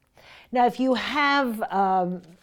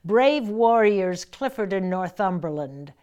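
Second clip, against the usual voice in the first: quoting the opening line; 5 dB louder than usual. Shown as a demonstration. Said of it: "she starts with".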